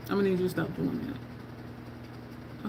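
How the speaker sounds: slow, soft mock-stern whisper; whispered warning. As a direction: breathe the warning like a secret. Retold warning whispered, slowed.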